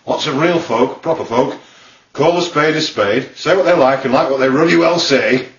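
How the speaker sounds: plain-speaking Yorkshire, in short phrases; broad Yorkshire accent; North Yorkshire accent. Shown as a demonstration. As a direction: talk like proper North Yorkshire folk. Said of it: "they talk a bit like this".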